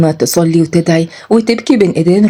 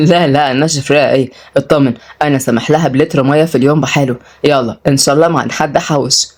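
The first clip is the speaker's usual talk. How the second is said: lightly voiced man in a lowered pitch; low, offhand comeback; joking stingy suitor; 4 semitones lower than usual. Suitor jokes about rationing her water, teasing.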